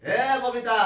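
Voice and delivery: drawn-out call for his wife. Acted. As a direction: call out to summon someone out of earshot. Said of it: "এত চিৎকার করছো কেন".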